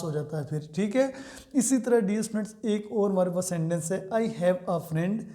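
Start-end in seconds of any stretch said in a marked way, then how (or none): 4.1-5.2 slow dictation. Shown as a demonstration. Reads example sentences slowly.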